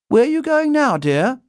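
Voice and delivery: high, loud motherly call; Mrs Brown voice. Acted. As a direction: call after her from the chair. Mrs Brown calling after Judy.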